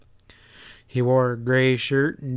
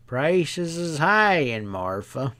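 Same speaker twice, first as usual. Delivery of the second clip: lightly voiced sly drawl; a hint of a knowing stableman; 3 semitones higher, slower than usual. Stableman slyly sizing up the riders, light drawl.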